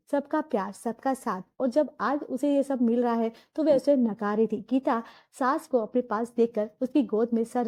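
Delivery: low, even storyteller voice; story narration. A narrator's reading. Narrator telling the family story, in a low even narration.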